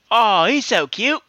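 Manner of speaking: put-on slow, botched British accent for the Englishwoman; bad English accent. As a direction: coo it in a fake English accent. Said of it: "Dick Van Dyke my accent".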